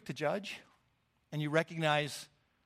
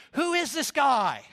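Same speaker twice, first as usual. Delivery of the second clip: louder, higher, slower incredulous question; a crowd murmuring in disbelief; astonished guests chattering; chirping guests; 8 semitones higher, 8 dB louder, slower than usual. Acted. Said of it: "they start chirping".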